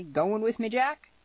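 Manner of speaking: high, lively hail; called out. A narrator's reading. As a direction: call out the question, pitch climbing. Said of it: "called out Tierney".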